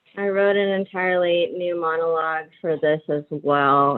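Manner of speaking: usual speaking voice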